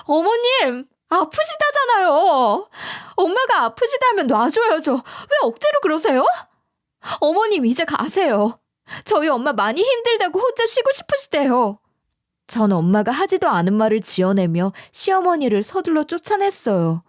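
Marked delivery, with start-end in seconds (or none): 0.0-11.8 yelling at mother-in-law. Retold or imitated. Daughter-in-law yells at mother-in-law to let go. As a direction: shout her out of the room. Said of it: "이렇게 고함 질러버렸는데요".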